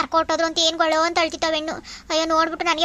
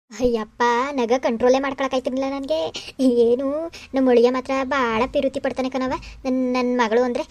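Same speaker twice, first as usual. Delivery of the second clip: lightly voiced scheming mother-in-law, a bit lower; secret gloating aside; 3 semitones lower than usual. Mother-in-law alone after fooling her son-in-law, secret gloating aside. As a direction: confide privately, pleased with the act.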